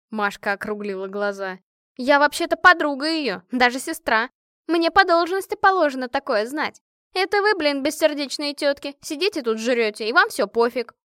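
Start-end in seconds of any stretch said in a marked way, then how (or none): 2.0-10.9 indignant. A narrator's reading. Машка indignantly scolds friends.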